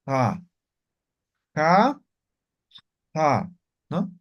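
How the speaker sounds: "ja" scraped hard in the throat; rasping ja. Shown as a demonstration. Teacher has students copy the fricative ja. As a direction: rasp "ja" like clearing the throat. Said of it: "como raspando van a pronunciar".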